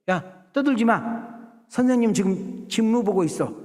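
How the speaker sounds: high, slow shushing scold; disciples hushing kids. Retold or imitated. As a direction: hush the noisy children like a stern disciple. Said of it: "이랬을 거라는 생각이 드는 거예요". (아이들을 조용히 시키는 제자의 높은 꾸중)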